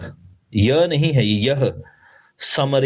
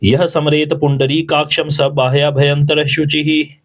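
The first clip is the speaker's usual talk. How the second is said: louder, flowing mantra chant; full recitation; 4 dB louder than usual. Shown as a demonstration. Teacher shows the full verse at normal speed. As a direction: recite the whole verse in one sweep. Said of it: "तो हम किस प्रकार से बोलते हैं".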